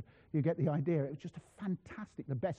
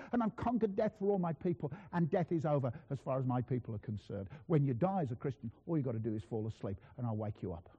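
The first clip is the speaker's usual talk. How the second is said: winding-down reassurance. Acted. Christ promising to wake his sleeping people, calming reassurance.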